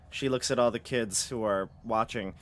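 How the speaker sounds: ordinary delivery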